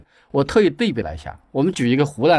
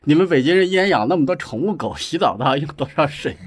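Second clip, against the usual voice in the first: mock-indignant, higher-pitched complaint; retold indignant scolding; 5 semitones higher than usual. Old lady from the river group scolds Beijingers, retold indignantly. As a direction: imitate an old lady scolding city people. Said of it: "她就曾经到北京来就很生气".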